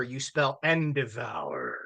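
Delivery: "endevour" said slowly with a drawn-out "vour"; playful slow "endevour"; mock endevour. Shown as a demonstration. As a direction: stretch out endevour like a fancy spelling. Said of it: "So you don't spell endeavor".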